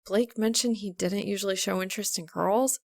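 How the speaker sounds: a hint of a flustered girl, thinking aloud; Maka, flustered. A narrator's reading.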